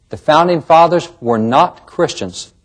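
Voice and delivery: not stressed a little, slowed delivery. Shown as a demonstration. Narrator reading a claim from an article, with stress on not. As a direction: lean on the word not, slowly. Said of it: "Notice the emphasis on the word not".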